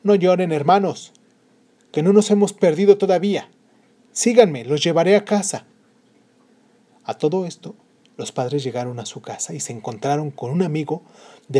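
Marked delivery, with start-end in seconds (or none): 0.0-5.7 calm reassurance. Acted. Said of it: "muy tranquilo".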